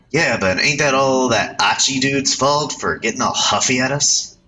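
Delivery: bossy delinquent ordering his pal; cocky street punk. Acted. Youth in red bossing his companion, brash punk voice.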